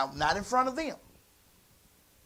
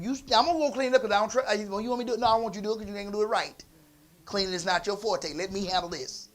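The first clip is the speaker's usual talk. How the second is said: stern; 4 dB louder, faster than usual. Retold or imitated. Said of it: "I was very stern".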